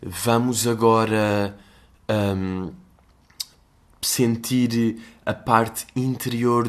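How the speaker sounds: lightly imitated yoga instructor. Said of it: "a instrutora a dizer aquelas cenas".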